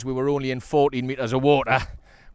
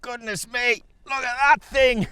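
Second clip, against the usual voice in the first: amazed; 10 semitones higher, 4 dB louder than usual. Real, not acted. Marvelling at the landed fish.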